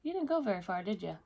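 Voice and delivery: sing-song taunt rising high on far; playful mock gotcha; teasing. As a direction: tease them for not going far. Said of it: "they're gonna be like".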